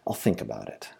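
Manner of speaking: low, soft brush-off; subdued, low non-answer; noncommittal reply. A narrator's reading. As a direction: drop the voice and commit to nothing. Noncommittal reply, repeated as before.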